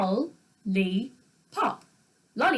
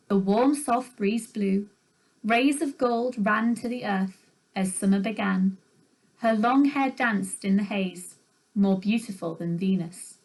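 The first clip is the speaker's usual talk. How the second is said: poem reading. Shown as a demonstration. Teacher reading a tanka to the class, gently. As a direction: read the tanka aloud, unhurried. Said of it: "Here's an example below".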